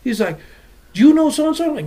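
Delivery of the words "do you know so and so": higher, louder eager question; lightly hammed-up guy from the DMV; mock homie voice.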